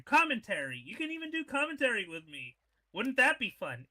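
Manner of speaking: upbeat promo read. Acted. Commentator pitching jobs to the audience, upbeat ad read. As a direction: sell the federation to listeners.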